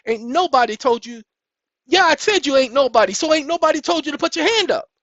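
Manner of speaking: loud, high scolding of the pretend kid.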